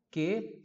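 che pronounced like Portuguese que; hard K in che. Shown as a demonstration. Teacher explaining C H E to students, hard K in che. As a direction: say che with a K sound. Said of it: "C H E som de que".

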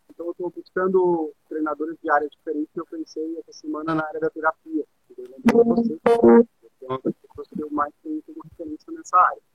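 glitchy breaking-up audio; choppy dropping connection; corrupted glitchy audio. Real, not acted. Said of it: "teu áudio tá falhando um pouquinho".

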